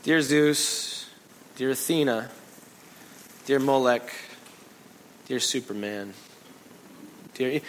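slow drawn-out mock pleading; rambling prayer. Pagans praying to every god, mock babbling. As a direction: list gods in a babbling drone. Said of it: "they were going".

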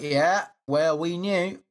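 lightly acted boastful know-it-all; mock-brag as if you knew all along; smug bragging. Co-host imagines the one dissenting state gloating, smug mock bragging. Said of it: "gonna have massive bragging, like".

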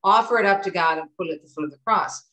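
lightly imitating mom's Jersey accent. Daughter repeats mom's advice on suffering, light Jersey accent. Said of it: "But she would say".

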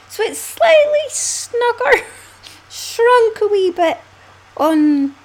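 high, slow, giggling through it; confessing the shrunk hat, high and laughing; laughing admission. Real, not acted. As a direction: laugh at your own mistake. Admits shrinking the hat.

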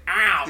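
OUT with an exaggerated vowel; mock the friend's way of saying out; out said with a broad "ow"; teased "out". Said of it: "teased me the way I said".

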